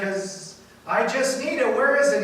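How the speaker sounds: lightly acted husband yelling back; mild mock yell. Superhero husband arguing with his wife, mock yelling. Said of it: "And he yells back".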